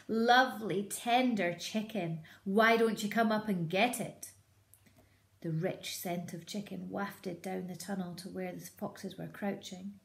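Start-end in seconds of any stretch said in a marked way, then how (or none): 0.1-4.3 louder teasing lure; taunting. Acted. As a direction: dangle it before him. Taunting fox with chicken.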